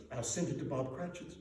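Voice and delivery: quietly, to himself; soft conspiratorial aside. A narrator's reading. Scrooge plotting his gift to himself, softly. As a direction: keep it a secret under your breath. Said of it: "whispered Scrooge".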